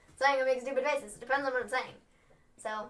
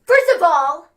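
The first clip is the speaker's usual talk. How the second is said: loud, punched wrestling-promo declaration; 4 semitones higher, 15 dB louder than usual. Pretend. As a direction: declare it loudly to a rival. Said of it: "let me just interrupt the promo".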